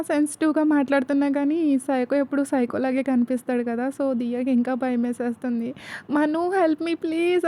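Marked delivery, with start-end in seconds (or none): 6.1-7.5 higher, slow, pleading cry; a drawn-out desperate plea; crying for help. A narrator's reading. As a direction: Diya begging Manu for help. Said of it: "ఏడ్చేస్తూ ఉంటుంది గట్టిగా అరుస్తూ".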